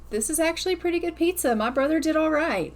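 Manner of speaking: put-on high, fast girlish quote; a grudging teen admitting the pizza's good; voicing Tegan. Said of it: "She's like".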